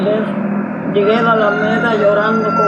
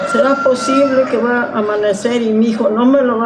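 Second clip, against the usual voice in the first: pleading cry to the Lord, a bit raised; crying out in prayer. Retold or imitated. Mother crying out to God at dawn, pleading shout. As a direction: call out desperately to God for her son. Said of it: "Yo le gritaba".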